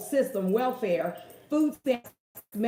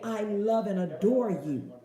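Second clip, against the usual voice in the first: sincere self-talk, unhurried; affirmation. Shown as a demonstration. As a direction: speak it like a prayer. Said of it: "This is how I talk".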